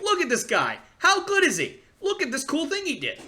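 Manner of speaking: high, eager fan voice showing off a player; excited fan. Retold or imitated. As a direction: gush to dad about the player, pitched high. Excited showing dad Robert Williams.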